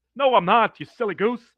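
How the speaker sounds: very high, silly laughing voice. Imagining a celebrity denying who he is: Jim Carrey laugh voice. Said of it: "that stupid laugh that he does".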